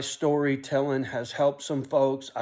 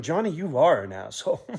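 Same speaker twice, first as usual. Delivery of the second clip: viewer's retort laughing. Retold or imitated. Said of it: "you're sitting there going".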